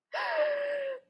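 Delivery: quick high nervous laugh. Real, not acted. Nervous laugh before the start.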